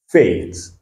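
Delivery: fate said as "fet", long A; model word. Shown as a demonstration. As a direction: give fate the English long A sound. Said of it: "pourquoi on a dit fate".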